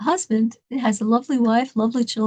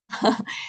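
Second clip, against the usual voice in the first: soft voiceless gasp; small acted gasp of terror; terrified gasp; 5 dB quieter than usual. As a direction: imitate a frightened, wordless breath. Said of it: "she's absolutely terrified".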